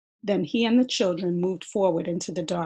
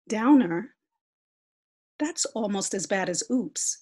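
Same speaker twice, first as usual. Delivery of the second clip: indignant; 2 semitones higher, 3 dB louder than usual. Acted. Sister indignant at word.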